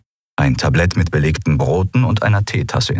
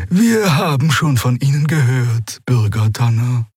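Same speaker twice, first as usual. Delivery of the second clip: understated dry remark in a higher voice; 6 semitones higher than usual. A narrator's reading. Crew member meeting a man she has heard of, dry. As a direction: say it drily, pitched up. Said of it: "sagte Xea trocken".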